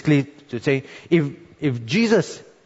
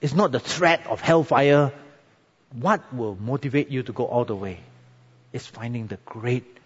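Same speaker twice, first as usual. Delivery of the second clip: prayerful altar call. Acted. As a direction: draw them gently into prayer. Closing prayer over music.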